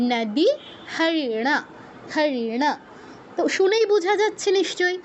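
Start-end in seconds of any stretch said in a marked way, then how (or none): 0.1-0.5 নদী with a dental ন, tongue on teeth; Sanskrit pronunciation. Shown as a demonstration. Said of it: "উচ্চারণটা হতো এরকম". 1.0-2.8 হরিণা with tongue curled back on ণ; Sanskrit retroflex pronunciation. Shown as a demonstration. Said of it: "উচ্চারণটা হতো এরকম".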